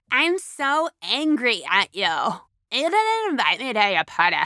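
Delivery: a touch of blame, slowed; mild angry accusation. Shown as a demonstration. Speaker contrasts the shallow version, mildly angry. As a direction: accuse them lightly.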